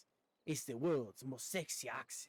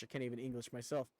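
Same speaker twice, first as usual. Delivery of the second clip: rushed mumble; faster than usual. Real, not acted.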